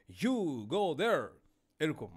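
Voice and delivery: slow, loud, heavily stressed sahib English; drawn-out mock sahib English accent; sahib's English accent. Shown as a demonstration. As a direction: hit each word hard like a sahib speaking English. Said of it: "জোর দিয়ে কথা বললে সেটা সাহেবি ইংরেজি হয়".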